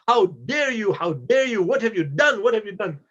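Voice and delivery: imitating an indignant scolding; mock-outraged reprimand. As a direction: retell an angry man telling someone off. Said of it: "He's, he's scolding Bahlul".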